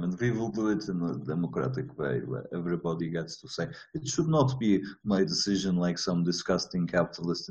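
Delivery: playful fake Russian accent, comrade style; mock Russian accent. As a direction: ham up a Russian accent like a Soviet official. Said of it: "I'm titting around in a Russian accent".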